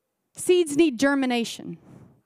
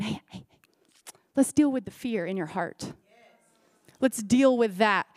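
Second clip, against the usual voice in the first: gentle reassurance; 4 semitones lower than usual. Retold or imitated. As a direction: soothe a frightened friend. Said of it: "He's just saying".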